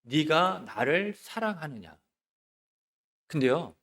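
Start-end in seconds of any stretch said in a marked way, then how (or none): 0.0-2.0 slow, softer tender question; embracing rebuke. Acted. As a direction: ask slowly and gently, as Jesus would. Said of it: "품어낼 수 있는 야단". (품어 주듯 느리고 부드럽게)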